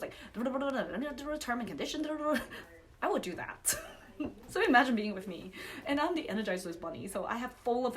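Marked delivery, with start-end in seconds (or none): 0.3-2.4 lightly mimicked rattled-off commercial disclaimer; a hint of the ad's small-print gabble; car salesman patter. Worked-up speaker mimicking car commercials, rattled-off salesman patter. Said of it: "one of those car salesman commercials".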